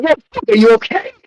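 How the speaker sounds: retold exasperated yell. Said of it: "I'm like".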